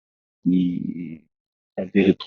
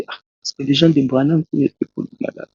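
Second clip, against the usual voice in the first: higher-pitched, mock surprised question; imitating astonishment; 7 semitones higher than usual. Onlookers ask the visiting preacher about praying, imitated astonishment. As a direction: retell their question in a raised, amazed voice. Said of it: "ça leur étonnait beaucoup".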